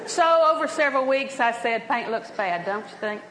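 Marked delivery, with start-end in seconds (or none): 1.9-3.2 low, offhand nudge trailing softer; understated, cushioned hint; dropping a hint. Retold or imitated. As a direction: slip it in casually, fishing for agreement. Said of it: "drop a little hint here".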